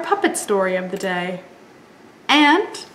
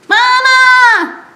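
high wailing call of mama; piglet crying for mama; 13 semitones higher, 10 dB louder than usual. Acted. Lost piglet calling for mama, high wail. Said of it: "said Piglet".

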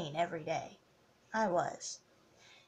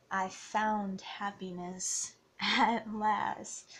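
slow, breaking into a laugh mid-line; laughing through it; much slower than usual. Real, not acted. Vlogger telling fans about new love, laughing. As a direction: let a happy laugh slip out. Happy over her new boyfriend.

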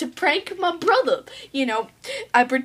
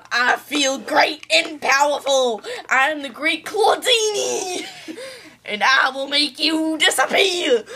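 sneering panto villain. Acted. Magician villain boasting.

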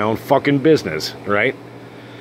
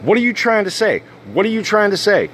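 mock offended, higher; hammed-up indignant challenge; woman in bar taking offense, mock indignant; 8 semitones higher than usual. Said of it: "She literally gets offended".

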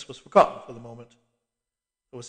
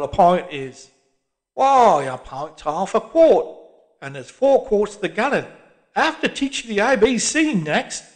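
mocking old man, high and loud; jeering old Londoner, slow and loud; scornful old cockney; 7 semitones higher, 10 dB louder than usual. A narrator's reading. Old man mocks barman.

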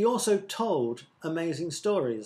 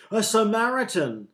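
loud, high outburst; shocked shout; 7 semitones higher, 6 dB louder than usual. A narrator's reading. Someone in the crowd hears of the Samaritan, shocked shout. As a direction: cry it out in disbelief. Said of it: "shouted someone".

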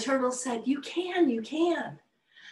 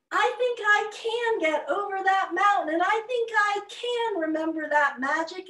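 earnest turtle; 7 semitones higher than usual. Acted. Turtle insists he can.

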